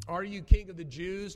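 a hint of Pilate demanding an answer. A narrator's reading. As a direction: Pilate presses the accused prisoner, demanding. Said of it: "demanded Pilate".

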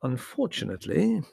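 formal, careful scholar; hesitant scholar. Acted. Theodore's voice.

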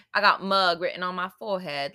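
light imitation British accent. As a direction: try British reality-show slang in an accent. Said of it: "makes me wish I was British".

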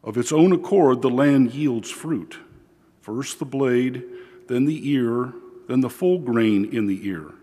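solemn liturgical reading voice; gospel reading. Acted. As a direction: proclaim the gospel steadily from the ambo.

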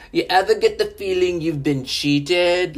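put-on terrible British accent, pitched high; badly faked British punk calling to a crowd; a punk singer. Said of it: "that was a terrible British accent".

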